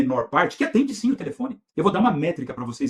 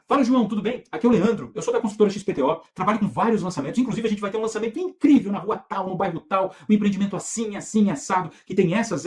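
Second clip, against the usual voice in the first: upbeat sales pitch, lightly acted; sales audio demo; 2 semitones higher than usual. Shown as a demonstration. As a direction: pitch a property launch to a client in a friendly way. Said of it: "Então vamos representar um áudio".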